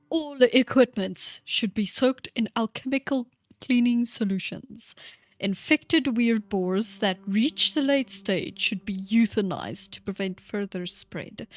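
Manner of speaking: lightly voiced old man; a hint of an old scholar reading notes; old guy voice. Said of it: "I'll do my old guy voice again".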